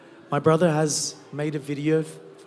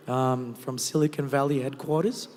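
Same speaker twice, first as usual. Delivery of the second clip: ordinary talk, nothing marked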